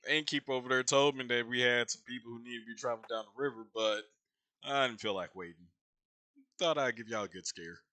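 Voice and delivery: a hint of a gruff old captain; old dwarf captain. GM voices old dwarven captain.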